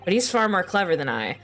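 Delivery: a hint of earnest young student voices; mild dialogue acting of students at Yume; lightly voiced game characters. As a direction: read the game scene with mild character voicing.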